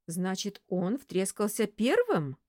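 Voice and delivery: slow, suspicious question. Acted. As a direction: ask it with doubt. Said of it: "с подозрением спросила Светлана".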